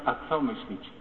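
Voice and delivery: ordinary talk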